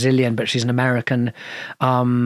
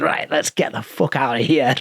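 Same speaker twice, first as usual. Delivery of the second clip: put-on Scottish accent. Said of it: "very Scottish".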